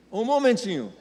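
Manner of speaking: a sharper, pushier "Um momentinho"; a third, bolder clerk putting him on hold; third clerk's hold phrase. Retold or imitated.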